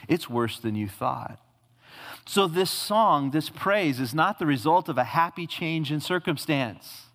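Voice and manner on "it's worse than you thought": a hint of a grave divine answer; lightly voiced God. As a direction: lower and softer, "it's" leaned on gently. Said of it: "In fact, he says".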